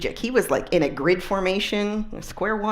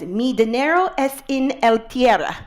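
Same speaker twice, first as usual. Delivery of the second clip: halting tourist Spanish, a bit louder; broken Spanish; 3 semitones higher, 4 dB louder than usual. Retold or imitated. Lost tourist asking a driver for help in broken Spanish. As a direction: say it in clumsy gringa Spanish. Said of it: "My Spanglish is not that great".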